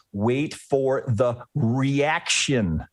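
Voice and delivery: drawn out, every word weighted, "reaction" falling; slow emphatic mantra. Shown as a demonstration. Coach repeats his rule to traders, slow and weighted. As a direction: spell out "Wait for the reaction" slowly like a rule. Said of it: "what do I say over and over and over again?".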